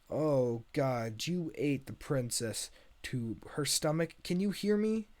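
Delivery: horrified, rising to a high loud call; panicked calling. Acted. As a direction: call out to someone trapped inside. Donkey shouts at ogre's stomach.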